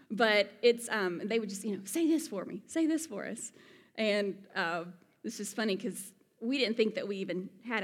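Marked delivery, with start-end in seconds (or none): 1.8-3.5 imitated eager request. Locals begging to hear accent.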